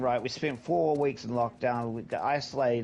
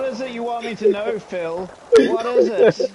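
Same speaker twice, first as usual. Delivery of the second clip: squeaky mock voice; 10 semitones higher, 10 dB louder than usual. Mocking voice of another nation.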